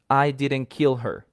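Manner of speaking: kill stressed, said slowly. Shown as a demonstration. Teacher demonstrating sentence stress to students, weight on kill. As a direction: lean on the word kill in "I didn't kill her". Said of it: "let's think of the sentence".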